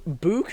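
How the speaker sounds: "book" with a drawn-out oo; long-oo "book". Shown as a demonstration. Friend comparing it to Canadian, long-oo "book". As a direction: say "book" to rhyme with spook. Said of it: "sounds more Canadian".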